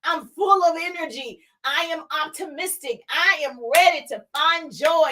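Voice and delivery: lightly lifted, deliberate self-affirmation; confident affirmations. Shown as a demonstration. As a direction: claim each I am like it's already true. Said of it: "Start off with "I am".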